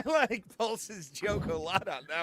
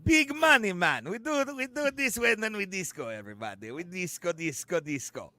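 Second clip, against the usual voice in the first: mock Russian accent; 2 semitones higher than usual. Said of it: "but yeah, that dance specific".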